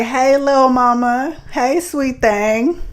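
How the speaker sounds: slow, drawn-out sleazy catcall; catcaller's call. Retold or imitated. Man calling out to her on the street, slow sleazy catcall. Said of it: "He was like".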